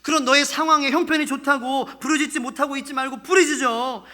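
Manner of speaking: insistent urging, building to a firm order; commanding. Acted. God ordering his people to cry out, insistently. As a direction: press them with mild rebuke, then command. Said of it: "이렇게 말씀하시는 명령이기도 해요".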